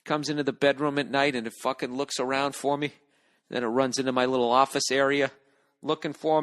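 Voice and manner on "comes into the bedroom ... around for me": ordinary talk, nothing marked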